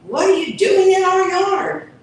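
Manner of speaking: high, loud shouted challenge; cat shouting at the intruder; hissed challenge. Acted. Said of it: "Goofy hissed".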